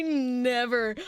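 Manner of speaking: slow, tearful admission; a touch of real tearfulness; teary and upset. Real, not acted. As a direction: let the voice wobble with held-back tears. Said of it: "I was so upset".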